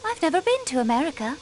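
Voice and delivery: put-on a slight American accent, a touch quick; an American accent slipping out under questioning. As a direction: let the American slip through, a little fast. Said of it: "you say it with an American accent".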